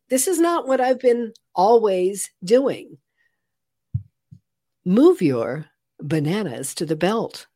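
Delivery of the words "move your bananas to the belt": measured, evenly paced supermarket checkout announcement; automated voice. Shown as a demonstration. Former radio DJ demonstrating her old automated checkout voice line. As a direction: read it like a self-checkout machine. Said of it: "I literally was the very first automated voice".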